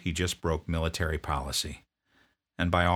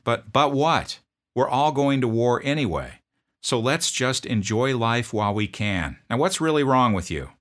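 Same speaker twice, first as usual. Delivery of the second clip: loud, higher, curt demand; drill sergeant; 6 semitones higher, 6 dB louder than usual. Retold or imitated. Drill sergeant confronting a sniffling private, loud bark.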